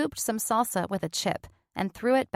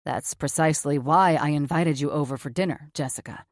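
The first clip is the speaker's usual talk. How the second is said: gruff doctor, lower register; blunt surgeon, low and flat; lower male voice; 5 semitones lower than usual. Acted. Cameron's voice, lower.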